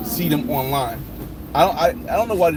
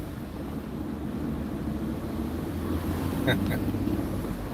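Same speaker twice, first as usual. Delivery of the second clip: long, low breathy chuckle; soft, voiceless laughing to himself; real, drawn-out quiet chuckle; 6 semitones lower, 10 dB quieter than usual. Real, not acted. Amused by a viewer's comment.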